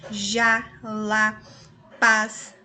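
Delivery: each word punched out loud and strong; stressed monosyllables. Shown as a demonstration. Teacher showing pupils the strong monosyllables, loud and stressed. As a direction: hit every short word hard, one by one. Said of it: "monossílabos tônicos".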